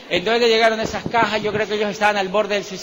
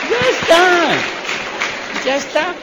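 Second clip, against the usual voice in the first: high-pitched, raised-voice "enough"; calling for order; 9 semitones higher, 5 dB louder than usual. Real, not acted. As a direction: call out over a laughing crowd, high. Calming the laughing audience. (llamando al orden con voz aguda)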